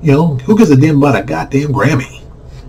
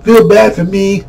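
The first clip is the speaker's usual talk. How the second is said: drawn-out, higher mock whining; hammed-up woe-is-me complaint; mock self-pity; 7 semitones higher, slower than usual. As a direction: play the poor victim, slowly. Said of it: "People wanna cry".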